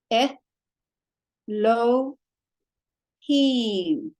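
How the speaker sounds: "Eh, lo, him" as three isolated syllables; one vowel per beat, pausing between "Eh", "lo" and "him". Shown as a demonstration. Teacher showing one vowel per syllable, "Eh, lo, him" spaced apart. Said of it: "One vowel, one syllable".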